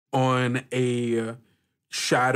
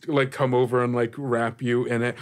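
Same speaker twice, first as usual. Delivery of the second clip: eager insistence; faster than usual. Acted. Johan insists, giving scarf.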